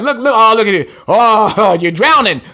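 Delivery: laughing mockery at the drowning; gleeful mock taunt with laughs; God mocking drowners. God laughs at the drowning, mocking laughter. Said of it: "That's the Most High says, like".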